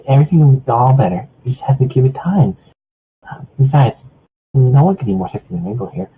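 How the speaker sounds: gently calm a crying friend; soothing Fluttershy. Acted. Fluttershy comforting Pinkie.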